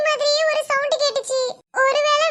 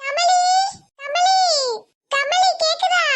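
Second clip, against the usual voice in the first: raised calls with a rising end; calling a name; 3 semitones higher, slower than usual. Acted. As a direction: call out to a friend out of sight. Searching, calling friend's name. (பெயரை உரக்க அழைத்தல்)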